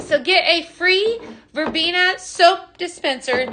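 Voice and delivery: usual speaking voice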